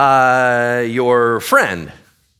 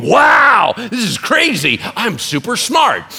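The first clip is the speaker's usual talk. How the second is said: high, loud hammed-up boast; mock self-impressed shout; 9 semitones higher, 6 dB louder, slower than usual. The preacher mocks a listener who gave advice, in a loud hammed-up boast. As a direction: shout it like you're amazed at your own brilliance.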